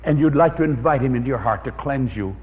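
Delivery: a pastor praying over the congregation, reverently; closing prayer. Acted. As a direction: pray gently over the congregation.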